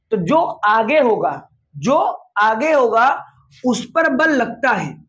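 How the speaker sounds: slow, word-by-word rule with pauses; slow, spelled-out rule. Shown as a demonstration. Physics teacher spelling out the force rule slowly, chunk by chunk. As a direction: lay out जो आगे होगा slowly, one chunk at a time. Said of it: "इसका बड़ा अपना मतलब होता है".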